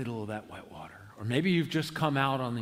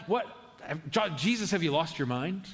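mock disbelief. Preacher playing a baffled listener answering Jesus, mock incredulous. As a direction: question it as if it were absurd.

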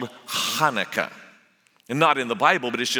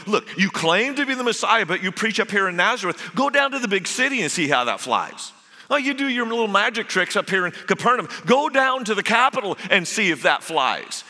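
mocking brothers; 5 semitones higher than usual. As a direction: needle him like scornful siblings. Brothers taunt Jesus about preaching.

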